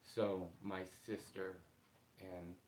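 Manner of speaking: after crying. Real, not acted. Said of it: "I've been crying a little bit this morning".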